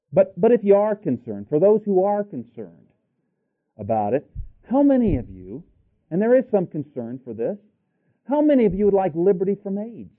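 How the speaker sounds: high, insistent appeal; impassioned preaching. Real, not acted. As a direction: press the congregation with the question. Preacher challenging the congregation.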